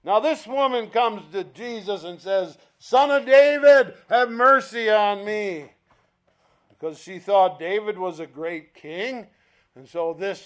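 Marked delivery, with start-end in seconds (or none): 2.8-5.7 loud, high plea that eases off; acted urgent appeal, pitched up; calling out. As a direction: cry out for mercy to someone passing. Woman calls out to Jesus.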